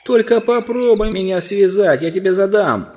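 high, loud, defiant shout; threatening cry. A narrator's reading. Prince dares dwarf to tie him, threatening cry. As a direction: threaten defiantly, stretching the words. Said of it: "вскричал Корин".

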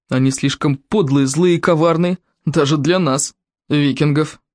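understated stern verdict. Acted. Viking condemning the outcasts, stern. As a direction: pass judgement sternly. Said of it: "сказал самым суровым тоном".

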